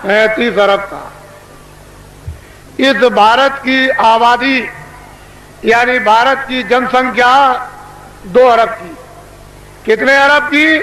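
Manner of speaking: booming orator addressing a crowd; booming political rally speech. Acted. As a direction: proclaim it to a packed rally.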